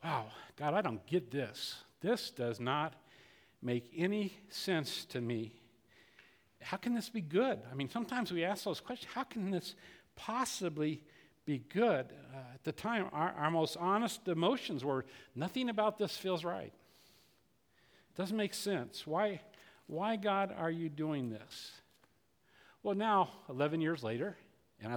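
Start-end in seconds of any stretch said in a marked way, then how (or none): 0.0-7.6 soft, slowed plea to God; softer, slower questioning of God; hushed bewildered prayer. Retold or imitated. Quoting a puzzled prayer. 9.1-12.1 soft, searching question to God; softer doubting question; hushed question. Retold or imitated. Quoting hard questions. 15.4-21.7 soft, slowed lament to God; softer, slow, aching prayer; quiet lament. Retold or imitated. Quoting honest emotions to God.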